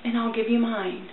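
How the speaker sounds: soft and low, tender offer; gentle. A narrator's reading. Ragman to the weeping woman, gentle and soft. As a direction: hand it over softly like comfort. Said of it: "he said to her gently".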